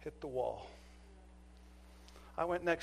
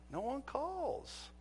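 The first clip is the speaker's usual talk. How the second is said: insistent; 10 semitones higher, 8 dB quieter, much slower than usual. Retold or imitated. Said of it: "I was insistent".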